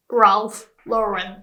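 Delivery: "Ralph Lauren" slowly with English R and L; English pronunciation. Shown as a demonstration. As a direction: say "Ralph Lauren" as "ralf LOR-en". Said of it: "Instead of".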